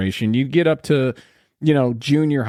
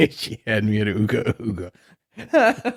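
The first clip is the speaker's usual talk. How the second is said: caveman voice; 3 semitones lower than usual. Pretend. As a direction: grunt it like a cavewoman. Repeating caveman line.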